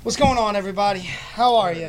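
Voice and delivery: big hyped show opener; radio host greeting. Acted. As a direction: greet the listeners like a DJ. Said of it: "radio show greeting".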